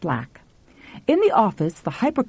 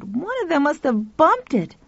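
put-on boy's voice; 8 semitones higher than usual. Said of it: "Pal said".

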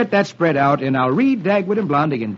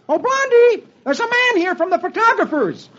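Dagwood's shout; 13 semitones higher than usual. Acted. Dagwood calls Blondie from the door, high shout. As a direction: call her from the front door. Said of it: "He shouts".

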